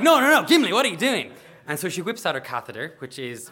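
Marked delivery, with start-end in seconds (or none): 0.0-1.3 loud, high, acted panic; playful retold alarm; alarmed protest. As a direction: call out to stop them.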